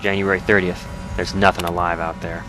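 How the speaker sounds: put-on journal read in a light Southern accent; terse survivor's log with a slight Southern twang. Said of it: "unintentional Southern accent".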